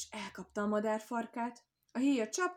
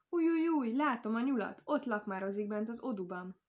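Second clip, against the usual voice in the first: excited hawk cry; 2 semitones higher, 5 dB louder than usual. Acted. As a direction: screech it out like an eager bird of prey. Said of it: "gyorsan megszólalt a héja".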